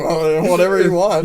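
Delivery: a mocking chuckle through the words; sneering chuckle. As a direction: sneer it out with a little laugh, lightly done. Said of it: "Yeah, sneer, chuckling".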